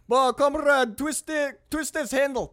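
high, loud impatient yelling; shouted order. Acted. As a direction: yell it at him to hurry. Acted crewmate yelling instructions.

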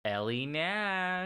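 slow, high announcer reveal; dramatic announcer intro. Acted. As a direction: present her like a grand entrance. Announcing the goth character.

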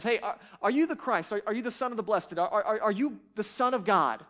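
insistent interrogator, stumbling over the words; demanding question. Retold or imitated. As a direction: push him for an answer. Accuser questions Jesus at trial.

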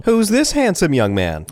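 a mock grandma cooing at a grown grandson; imitating grandma.

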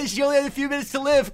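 fast, high, urgent; frantic shout. Acted. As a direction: blurt it out in a panic. ER drama, shouting.

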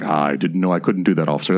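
a hint of an innocent white dude. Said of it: "he does his white friend voice".

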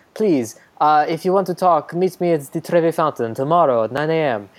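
shaky attempt at an Italian accent; Italian accent drifting into French; Italian accent gone French. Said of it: "Now you're sounding French".

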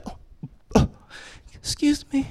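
high, soft, prim little excuse me; dainty polite wife. Retold or imitated. Comic imitating his wife's old dainty burp apology. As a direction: mimic a ladylike burp apology. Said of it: "it used to be like".

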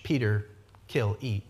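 low, soft divine command; hushed commanding voice in the vision; hushed voice of God. Retold or imitated. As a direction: speak it low and hushed, like a voice from heaven. God's voice in the retold vision.

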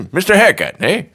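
high, giggling through it; laughing. Pretend. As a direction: laugh the name out. Trying intro voices, laughing.

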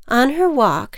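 ordinary delivery

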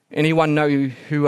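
usual speaking voice

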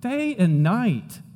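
slow, pleading psalmist; earnest plea. Retold or imitated. Psalmist appealing to God urgently, slow pleading. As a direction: cry out day and night slowly. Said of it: "He's saying".

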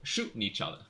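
light put-on Cockney; Cockney accent. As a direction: explain it like a Londoner. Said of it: "your first time doing a Cockney accent".

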